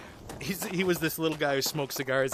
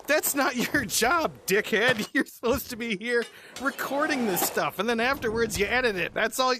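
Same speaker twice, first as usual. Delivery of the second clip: higher, indignant mock complaint; exasperated rant; 6 semitones higher than usual. Actor griping at the studio guy, mock exasperated rant. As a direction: tell him off, half laughing.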